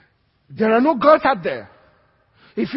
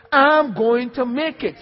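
declaring it; 2 semitones higher, 4 dB louder, slower than usual. Shown as a demonstration. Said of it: "Can I hear that with you?".

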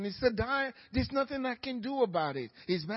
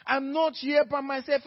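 emotional confession; 5 semitones higher, 4 dB louder than usual. Pretend. Voicing the believer's confession.

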